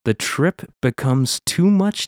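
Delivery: upbeat podcast intro read; announcer voice. Acted. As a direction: read it like a radio host.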